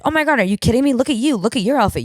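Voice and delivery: high, gushing celebrity impression; imitated gushing. Celebrity flattering a nervous fan, imitated gushing.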